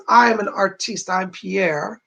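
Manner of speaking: lightly imitated French accent; just a touch of French accent. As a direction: quote him with a hint of a French accent. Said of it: "he speaks with a French accent".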